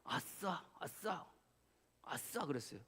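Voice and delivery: soft under-the-breath hooray; muttered cheer. Retold or imitated. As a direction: cheer quietly to yourself. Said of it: "제가 옆에서 "아싸, 아싸." 하는 거 들으셨어요?".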